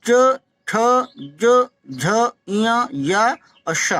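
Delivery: च ज झ spoken clearly, tongue on the palate; slow palatal drill; palatal sounds demo. Shown as a demonstration. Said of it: "जीभ से जरूर तालु छूनी चाहिए".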